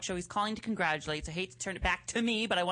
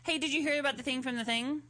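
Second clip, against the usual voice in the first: lightly higher, chatty phone voice; playful phone voice; 5 semitones higher than usual. Shown as a demonstration. Host showing a usual call with Mark, playful phone voice. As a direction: gossip with a pal on a pretend call. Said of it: "That's how I talk to him on the phone".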